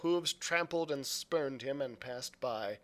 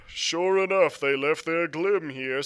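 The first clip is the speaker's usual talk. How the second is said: louder call from a window; pirate calling out; 2 semitones higher, 7 dB louder than usual. A narrator's reading. Pirate shouting down from the window, louder. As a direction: call it down to the road. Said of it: "said the fellow from the window".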